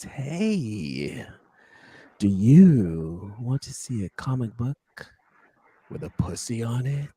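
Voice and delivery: slow, sultry seductive pitch. Shown as a demonstration. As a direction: purr the intro slowly. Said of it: "Let's do it again".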